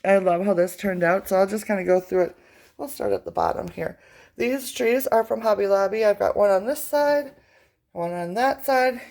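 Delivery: ordinary delivery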